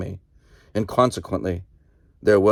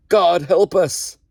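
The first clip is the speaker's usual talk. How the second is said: loud, slow, much higher bellow; 9 semitones higher, 5 dB louder, slower than usual. Acted. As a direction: roar it at the man beside you. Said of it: "he bellowed to the man next to him".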